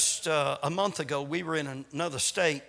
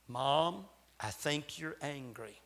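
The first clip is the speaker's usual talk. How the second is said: put-on soft, hushed child's confession; whispered; 5 semitones lower, 8 dB quieter than usual. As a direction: lean in and hush it, like a secret in the ear. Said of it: "whisper in our ear and say".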